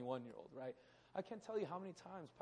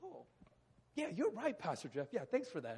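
mock naive agreement; 3 semitones higher, 3 dB louder than usual. Young Billy naive reply.

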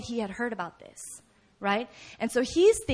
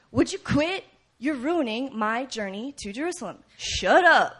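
rebuking. Acted. Travelers rebuking the noisy beggar, annoyed scolding. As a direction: tell off a nuisance spoiling your trip. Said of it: "So they're rebuking him".

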